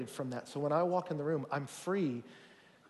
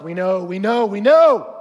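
mock-impatient chorus, louder on the last; we-get-it impatience, acted out; impatient insistence; 3 semitones higher, 17 dB louder than usual. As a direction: brush off a repeated warning, rising in force. Students impatiently insist they already know.

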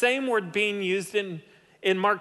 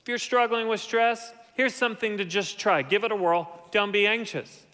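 mock casual suggestion; 3 semitones higher than usual. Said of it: "Paul doesn't say".

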